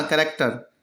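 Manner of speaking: करेक्टर, slowly with a hard k; करेक्टर, said like the k in key; hard k pronunciation. Shown as a demonstration. Teacher repeating for the class करेक्टर with a hard k. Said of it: "अभी से चैरेक्टर मत पढ़ना".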